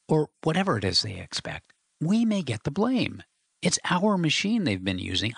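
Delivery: a hint of worry as he warns; lightly voiced Chuck, anxious. Chuck warns George they may get blamed, mildly anxious.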